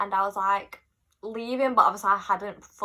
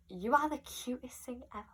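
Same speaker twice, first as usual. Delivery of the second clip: soft, slightly higher star impression; 4 semitones higher, 8 dB quieter than usual. Singer gushing to a teenage fan at their meeting, lightly imitated. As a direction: lightly attempt the singer's voice, quietly. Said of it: "do it in her accent".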